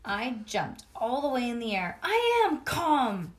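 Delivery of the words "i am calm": slow, loud, higher shout; loud slow defiant yell; hollered. Acted. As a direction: yell that you're calm. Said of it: "I hollered back".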